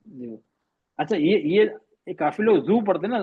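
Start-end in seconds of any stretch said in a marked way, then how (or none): 2.6-2.9 "زو" with a buzzing z in place of ḍād; wrong zo sound. Shown as a demonstration. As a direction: say "زو" with a plain z sound. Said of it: "زو نہیں ہے بیٹا".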